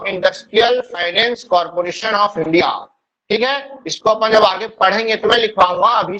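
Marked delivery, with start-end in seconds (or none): 0.0-2.7 very slow, word by word for writing down; slow dictation. Shown as a demonstration. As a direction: dictate it slowly so they can write. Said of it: "English में क्या होगा इसका full form". (धीमी गति से लिखवाना)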